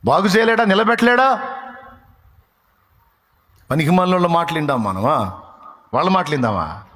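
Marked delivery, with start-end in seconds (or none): 0.0-1.6 higher, louder rhetorical questions; fiery preaching. Acted. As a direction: hammer each question home. Preaching at full force. (ఉద్రేకంగా ప్రసంగం)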